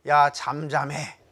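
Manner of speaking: slow, loud order for silence; commanding rebuke. Acted. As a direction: silence the doubts with slow authority. Orders the doubting voices silent.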